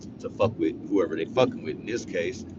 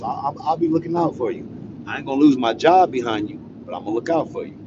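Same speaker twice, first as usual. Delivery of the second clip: doting guard; 5 semitones higher, 3 dB louder than usual. Retold or imitated. Guard voiced, promising.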